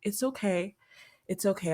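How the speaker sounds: hushed, soothing it's okay, like calming a scared animal; quiet, tender reassurance; softly reassuring self-talk. Retold or imitated. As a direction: gently comfort your own body. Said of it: "I just told my body".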